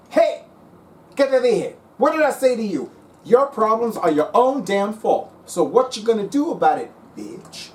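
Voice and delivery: high, loud sassy scolding; scolding cards. Retold or imitated. The cards scold the client for blaming them, loud and high. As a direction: scold him hard like a fed-up aunt. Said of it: "she's like".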